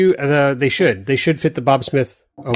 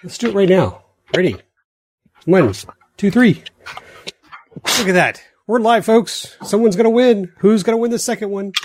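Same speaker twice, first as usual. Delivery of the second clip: hyped giveaway announcement; 4 semitones higher than usual. Real, not acted. Live giveaway wheel spin.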